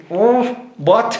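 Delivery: half-laughing mock confusion on hearing the phrase; baffled oh what. Newcomer recalling first hearing the slang, high baffled. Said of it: "I'm thinking".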